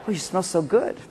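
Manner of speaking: soft, laughing compliment. Retold or imitated. Husband to wife, soft laughing compliment. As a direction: say it through a laugh. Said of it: "You give her a hug".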